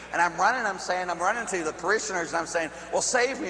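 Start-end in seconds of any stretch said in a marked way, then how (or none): 2.9-3.5 pleading. Retold or imitated. Fleeing, begging parishioners for help.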